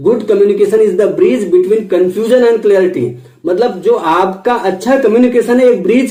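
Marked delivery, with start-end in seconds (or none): 0.1-3.1 very slow, word by word; slow golden statement. Shown as a demonstration. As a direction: lay out the quote slowly for the class. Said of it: "golden statement है।". (बहुत धीमे, शब्द-शब्द पर ज़ोर)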